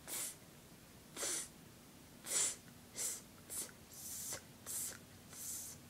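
"tss" hissed with a lisping s; lisp demo. Shown as a demonstration. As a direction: whisper "tss" through a lisp. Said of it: "you can hear a".

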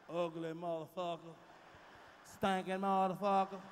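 low, each insult landing on motherfucker; showing off motherfucker. Shown as a demonstration. Proving black folks own motherfucker, low and rich. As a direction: roll out the insults with relish. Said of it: "Can't nobody say motherfucker like us".

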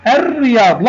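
"الرياض" as ar-riyad, no l sound; silent lam. Shown as a demonstration. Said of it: "لم أنطق اللام".

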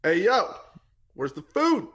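high-pitched, hammed-up Black American voice for a dog; mock Black American accent. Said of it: "talk like a black person at my dog".

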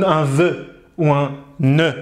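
"vœu" and "ne" with open eu, slowly; wrong pronunciation. Shown as a demonstration. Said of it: "on dit pas un".

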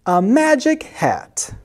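high, halting squeak, groping for an excuse; squeaky, hesitant cat voice. A narrator's reading. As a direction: squeak and stall, then land on the idea. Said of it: "he squeaked".

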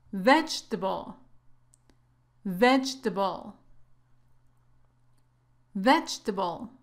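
Vegetable broken into VEJ, TUH, BUL, then joined; syllable drill. Shown as a demonstration. Teacher drilling a word for learners to repeat, measured syllable practice. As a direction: sound out Vegetable in three separate syllables, then whole. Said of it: "practiquemos esta palabra un poco más".

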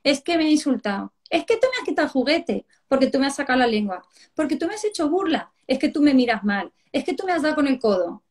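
lightly voiced child making excuses; a hint of a whining, accusing child; tattling child. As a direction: reel off mock-indignant kid complaints. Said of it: "te dice el que ha pegado".

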